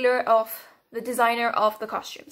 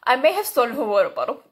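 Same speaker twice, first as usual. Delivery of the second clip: mock calm; 3 dB louder, faster than usual. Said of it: "she said it so calmly".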